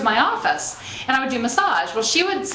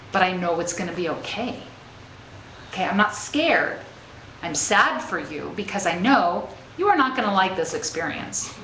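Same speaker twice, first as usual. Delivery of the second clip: calm reassurance; 4 semitones lower than usual. Retold or imitated. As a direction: settle her down gently, nothing to fear. Mom calming panicking daughter.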